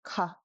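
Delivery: light puff on the K of "ka"; mid aspiration. Shown as a demonstration. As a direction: say "ka" with just a small flutter of air. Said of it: "It is mid aspiration".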